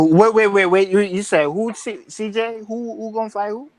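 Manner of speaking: startled, insistent double-check; confused interjection. Real, not acted. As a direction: butt in loudly, demanding a recap. Cuts in, confused by the claim.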